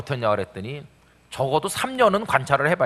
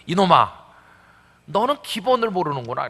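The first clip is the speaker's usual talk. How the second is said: a hint of a stern father scolding, louder on 이놈아; fatherly scolding; 4 semitones higher, 4 dB louder than usual. God scolding the pastor, louder, like a stern father. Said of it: "꼭 우리 아버님이 꾸짖듯이".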